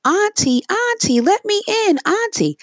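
high, loud plea to be let in; screaming. Acted. Polar bear at the door screaming for Auntie, screamed plea. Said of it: "banging on the door and screaming".

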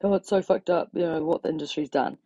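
light, airy mock-sympathy voice; mocking a singer. Ranting about a singer, lightly mocking her hollow sympathy. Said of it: "came out and said something like".

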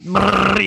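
vocal vibration buzz; buzzing sound. Acted. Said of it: "is this your voice, like, doing the buzz sound".

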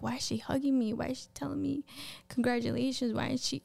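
retold baffled muttering to oneself; weirded out. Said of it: "I was super weirded out".

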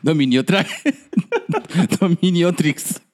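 reading through laughter; words broken by laughs; laughing. Real, not acted. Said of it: "el orador dice".

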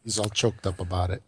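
low, soft sultry purr. Acted. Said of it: "that sultry voice you just heard".

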